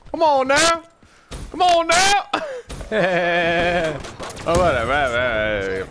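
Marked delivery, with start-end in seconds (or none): 0.1-0.8 "Come on now" pushed up high on now; higher exasperated plea. Real, not acted. 1.5-2.2 "Come on now" pitched way up, rising on now; high disbelieving whine. Real, not acted.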